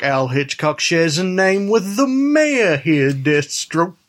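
a lightly put-on old-West saloonkeeper; saloon owner cowboy. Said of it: "the voice Youth is doing".

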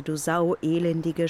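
retold shout. Max shoving her out of the bar, mild shout. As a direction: bark the insult at her like an angry barman. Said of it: "schrie er".

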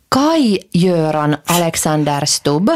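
Kai Göran Alexander Stubb spelled out slowly and deliberately; full name, slowly. Shown as a demonstration. Revealing the president's full name to a friend, slow and deliberate. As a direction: announce the full name slowly, each part weighed. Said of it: "mä sanon hänen koko nimensä".

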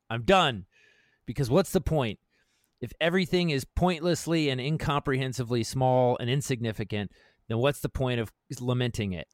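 rousing, earnest read of a pep talk; manifesto reading. Acted. Reading his manifesto aloud to a friend, rousing. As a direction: read it like a battle cry to yourself.

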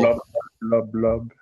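bubbling blub sounds; mouth at waterline. Shown as a demonstration. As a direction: blub like talking underwater. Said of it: "make a water sound".

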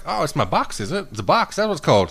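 put-on American accent for the retold chatter. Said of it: "She had, like, American accent".

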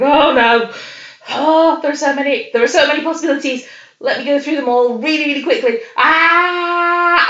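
imitated fluster. Co-host imitating the Doctor given forty-five seconds, flustered. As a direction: play at being overwhelmed by too many options. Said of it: "getting all flustered".

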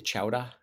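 "Chowder" ending in ah, questioning lift; questioned pronunciation. Shown as a demonstration. Checking the spelling of the name, non-rhotic "Chowder". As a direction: ask "Chowder" with an open ending. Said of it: "is it Chowder with an H at the end".

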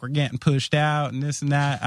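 put-on light Southern accent, an impersonated farmer. Humboldt County farmers complaining to an interviewer, in a light Southern accent. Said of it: "I did a Southern accent".

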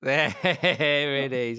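drawn out through laughter; laughing slowly. Real, not acted. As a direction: stretch it out while laughing.

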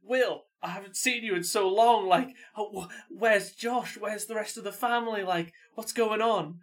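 a sister overjoyed to find her brother; high and loud, slowing at the end, a sister's reunion; excited sister. Retold or imitated. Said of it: "And she was like".

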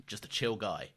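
slow, laughing laid-back voice. Retold or imitated. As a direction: drawl it out through a laugh. Voicing carefree fans, laughing.

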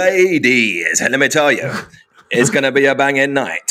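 hyped club-night advert read; stretched-out garage MC sales pitch. Shown as a demonstration. MC advertising a club night to ladies, garage hype. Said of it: "how do you even sound on an advert".

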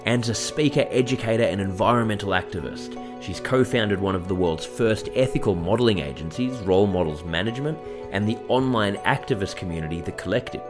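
scripted welcome read to listeners; podcast introduction read; podcast host intro. Acted. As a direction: introduce the guest in a measured presenter's read.

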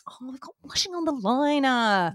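mock dismay. Driver realises washing is out in the rain, dismayed. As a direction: wail it slowly, hammed-up.

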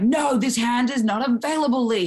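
high-pitched mock protest; playful high indignant no; acted refusal. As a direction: squeal out the refusal. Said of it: "I'm like".

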